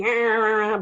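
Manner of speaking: imitated drawn-out whinge; mock a wordless whiny complaint; whingy groan. Teacher shows how the voice comes out, whingy groan. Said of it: "whingy or whatever".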